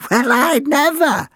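a playful storybook gasp of surprise; mock surprise. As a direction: exclaim it as the amazed little dog. Billy exclaims.

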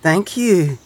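high, pleased little hedgehog; smiling thanks. A narrator's reading. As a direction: thank friends with a smile. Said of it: "smiled Little Hedgehog".

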